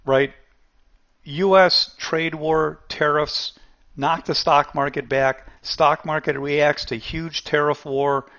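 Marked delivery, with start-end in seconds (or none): 1.2-8.3 headlines read out slowly, one by one; mock news headlines. Host mocking the headlines TV would have run, in a slow mock newsreader read. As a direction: announce each headline like a newsreader. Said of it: "the headlines would have been".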